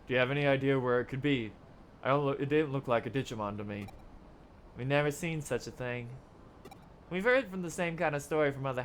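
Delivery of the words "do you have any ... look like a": a quick, light Texan accent. Shown as a demonstration. Detective asking where the monster came from, in a light Texan accent. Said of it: "I should be trying to do a Texan accent for her".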